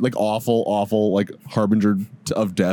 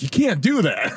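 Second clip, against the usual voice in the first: higher mock dad scolding; exasperated, not mad; 4 semitones higher than usual. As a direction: scold without real anger. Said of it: "Like, not mad".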